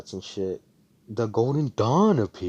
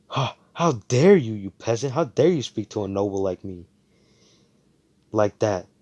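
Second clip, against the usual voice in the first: louder, haughty outrage; indignant noble; 3 semitones higher, 7 dB louder than usual. Retold or imitated. Klaus snapping at Asta for his cheek, loud indignant outrage. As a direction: play the offended noble scolding a peasant. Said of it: "And Klaus is like".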